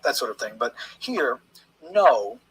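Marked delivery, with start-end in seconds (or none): 1.9-2.4 a firm, loud "no" with the full weight on it; a loud, flat-out refusal as "no"; emphatic no. Shown as a demonstration. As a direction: punch the single word "no" hard and louder. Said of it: "that's an emphatic no".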